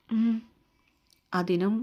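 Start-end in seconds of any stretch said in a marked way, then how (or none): 0.1-0.4 soft hum. A narrator's reading. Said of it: "ഒരു മൂളിച്ചയായിരുന്നു അവളുടെ മറുപടി".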